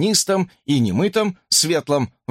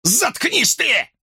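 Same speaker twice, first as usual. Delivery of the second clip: high, slow furious outburst; angry man shouting at a taunting woman; exploding in anger; 11 semitones higher, much slower than usual. A narrator's reading. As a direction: explode at her. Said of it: "взорвался он".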